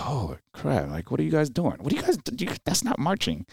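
mock the Army soldiers' sloppy marching in disbelief; mock exasperated. Marine mocks lost Army soldiers, high incredulous voice. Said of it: "I was like".

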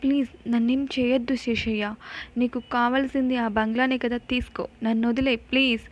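mild, understated begging for mercy; begging to be left alone; pleading. Acted. Anand begs Sheshayya to spare him, mildly pleading. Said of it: "అని ప్రాధేయపడతాడు".

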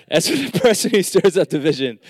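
reading through a laugh; chuckling mid-line. Real, not acted. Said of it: "I'm just joking".

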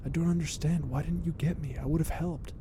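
a touch of worried reproach; upset hiss. Acted. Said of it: "The Duke hissed with an upset".

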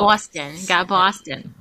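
Boston accent. Shown as a demonstration. Guest showing host her Boston accent. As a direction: say Boston like a native. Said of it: "Just say it".

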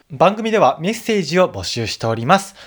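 crisp radio sign-off read, evenly projected; closing announcement. Acted. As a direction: read out the show's closing notices. (番組締めの告知読み)

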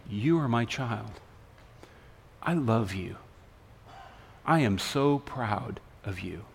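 low, tender, unhurried reassurance; gentle whispering. Acted. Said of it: "what God's whispering to you".

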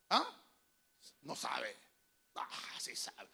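breathy whispered aside to himself. Acted. Pastor answering his own question in a whisper. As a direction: slip it in as a secret whisper.

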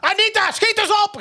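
very high yelled call; retold shout at boss. Employee yelling at her boss to hurry up, high retold shout. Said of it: "riep ik ook nog".

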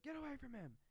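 high, loud mock warning shout; hammed-up high-pitched order; Loomis. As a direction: yell an urgent warning as an impression.

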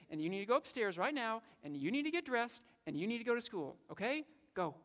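no arguing, you're going to school; firm dad orders. Retold or imitated. Father telling his sick son he goes to school, firm and loud.

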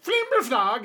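high, loud announcer cry; MC call. Acted. MC waving the fighter down, calling out. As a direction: call it as he waves you down. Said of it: "the M C will be like".

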